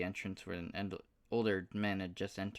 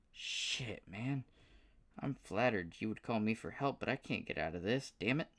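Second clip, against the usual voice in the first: high, frustrated southern drawl; a torn good old boy cursing his luck; 4 semitones higher than usual. Acted. Paul flattered but stuck in Cleveland, frustrated southern drawl. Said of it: "with a surprisingly thick southern drawl".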